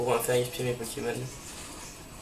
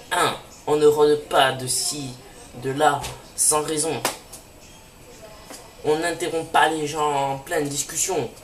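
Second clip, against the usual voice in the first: loud, slow stern lecture; stern scolding; 4 dB louder than usual. Acted. The professor scolds the intruders, loud and stern. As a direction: lay down the rules sternly.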